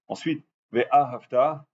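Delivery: Ve'ahavta said slowly with the stress on the last syllable ta; careful stress. Shown as a demonstration. Rabbi teaching the right stress of Ve'ahavta, slow and careful. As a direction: lean on the final ta of Ve'ahavta, slowly. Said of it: "il faut le dire comme ça".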